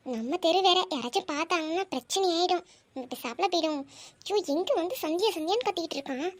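quiet, anxious aside; worried undertone. Acted. Girl fretting under her breath about being seen. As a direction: keep it down so nobody hears.

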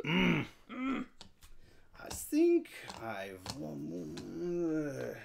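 slow, put-on French accent; drawn-out fake French musing; weird French voice. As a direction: ponder it slowly as a mock Frenchman. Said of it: "you get to talk in a weird voice".

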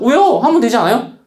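protesting student. Acted. Student asking teacher why not, mock protesting.

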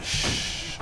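hushed voiceless shush; shushing whisper. Real, not acted. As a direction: hush yourself while hiding. Hiding from monster.

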